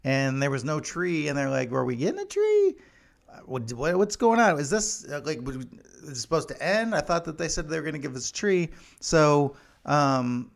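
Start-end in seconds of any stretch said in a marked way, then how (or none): 1.7-8.7 sudden high, loud puzzled question; lightly acted flustered Brit wondering; mock confusion. Britain confused when no tree comes.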